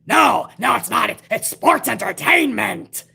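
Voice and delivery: a light mock Vince McMahon protest. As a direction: lightly play a stubborn boss insisting. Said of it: "this is how Vince thinks".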